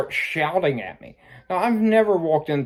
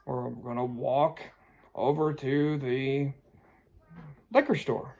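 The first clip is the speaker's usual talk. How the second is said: hushed plan; 6 dB quieter than usual. Retold or imitated. Hushed plan told to daughter.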